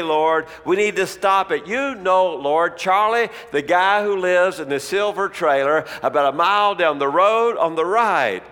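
retold fervent pleading prayer. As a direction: urge God to step in, mildly heated. Man praying loudly about Charlie.

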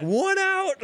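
high mock yell across the field; high teasing shout; retold yell. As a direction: yell it out to taunt the batter. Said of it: "best hitter in the universe is like".

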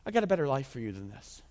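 low, softened reassurance; gentle mock whisper. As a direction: imitate God speaking softly in the ear. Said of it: "Conviction is God whispering in their ear".

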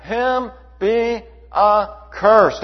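loud, slow and heavy, every word weighed out; slow thundering pronouncement. Real, not acted. Preacher warning the church about false gospels, slow booming curse. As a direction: drop the curse on them like a judge's sentence.

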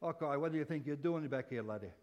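hammed-up Irish brother; comic Irish scolding; mock Irish accent. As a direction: put on a light, jokey Irish accent. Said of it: "He was Irish".

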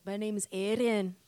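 light Scottish lilt on a self-introduction; a hint of Scottish brogue; Scottish accent. Shown as a demonstration. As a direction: say it like a Scot. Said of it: "I know how to do a Scottish accent".

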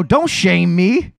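slow, laughing don't shame me; laughing plea. Retold or imitated. Pleading to the muscly guy in the elevator, laughing. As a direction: drag it out through a laugh. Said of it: "And I go".

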